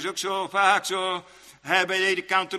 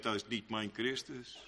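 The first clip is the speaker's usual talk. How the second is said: ordinary talk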